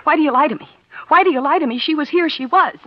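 a sister demanding the truth; angry accusation. Acted. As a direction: accuse him hotly, pressing. Accusing quarrel.

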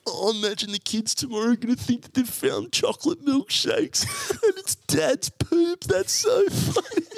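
laughing. Retold or imitated. Kids laughing at dad's poop.

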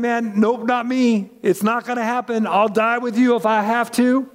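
proud Peter refusing. Retold or imitated. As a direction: wave it off, sure of yourself. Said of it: "But Peter was saying".

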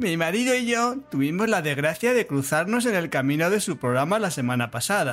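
lightly sung phrase endings; a hint of a Galician lady; man doing a woman's voice. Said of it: "Es que canta, canta al final de las frases".

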